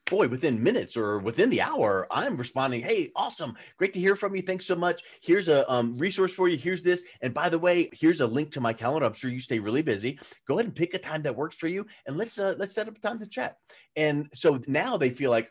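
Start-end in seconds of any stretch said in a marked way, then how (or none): 2.8-13.6 higher, friendly and welcoming; role-play a cheerful, obliging response to an inquiry; acted upbeat reply. Acts out prompt reply to inquiry.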